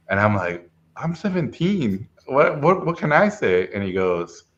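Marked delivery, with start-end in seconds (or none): 0.9-3.7 flustered protest. Retold or imitated. Retold teenager protesting to reviewer.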